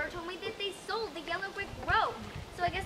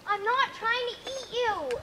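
exasperated shout; 5 semitones higher, 6 dB louder, much slower than usual. Acted. Beth insists again, exasperated.

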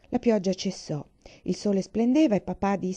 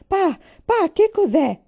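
high, loud frightened cry to her father; a child calling out in fright in the dark; 11 semitones higher, 8 dB louder, slower than usual. A narrator's reading. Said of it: "urlò".

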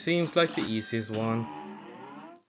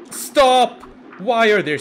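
shout; 10 semitones higher, 10 dB louder than usual. Real, not acted. Frustrated at enemies in game.

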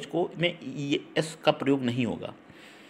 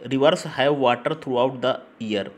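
slow sentence reading; 3 dB louder, much slower than usual. Shown as a demonstration. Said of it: "ये जो है river के पहले".

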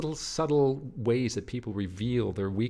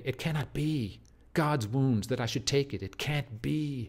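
shocked disbelief; 5 semitones higher than usual. Acted. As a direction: read the verse as stunned denial, slowing at the break. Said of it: "enjambment creates that shock and disbelief".

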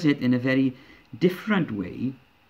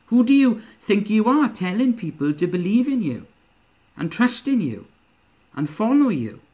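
indignant challenge. Acted. Jerusalem leaders confronting Jesus, scornful and indignant. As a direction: demand it like an affronted elder.

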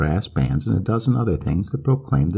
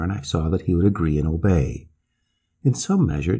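plain reading voice

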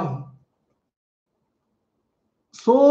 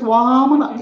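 a hint of a sweet little boy; nicely said; 3 semitones higher than usual. Boy repeating his name to the king, nicely. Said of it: "Very nicely he says".

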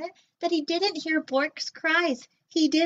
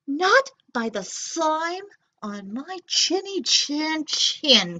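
slow, higher defiant refusal; defiant cry; 5 semitones higher, 3 dB louder, slower than usual. Acted. Nezlex refusing the robot, slow and defiant. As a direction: refuse him proudly. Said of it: "cried Nezlex".

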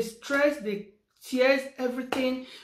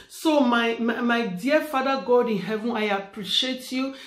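prayer. Acted. Prays aloud to God.

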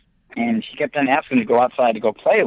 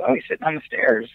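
little daughter voice; 10 semitones higher than usual. Retold or imitated. Father voices his little daughter.

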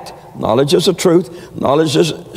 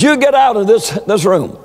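mock screaming witch; 7 semitones higher than usual. Preacher acting the fortune teller ordering his mother out in a mock scream. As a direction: play the fortune teller shrieking her out.

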